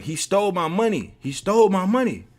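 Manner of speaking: high, mock-distraught complaint; hammed-up plaintive accusing; tearful accusation. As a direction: imitate an upset man insisting. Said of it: "with tears coming down his eyes".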